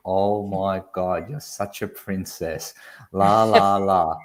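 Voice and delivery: slow, drawn-out teasing; mock exasperation. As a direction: imitate a friend's drawled princess jibe. Friend mockingly calls her a princess.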